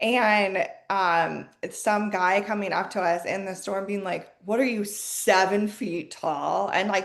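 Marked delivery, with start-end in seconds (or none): 4.4-6.7 mock, patronizing, condescending, jabbing tone. Retelling a guy in a store asking about height, imitating condescending tone.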